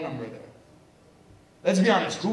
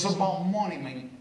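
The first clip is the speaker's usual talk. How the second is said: lightly voiced tough-guy hustler; a hint of a Scarface gangster pitching money; Tony Montana-style hustler; 3 semitones higher than usual. A hint of a hustler pitching money on the phone. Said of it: "He was talking like this".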